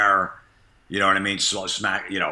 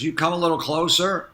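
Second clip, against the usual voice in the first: nun menacing; 8 semitones higher than usual. Retold or imitated. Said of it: "She goes".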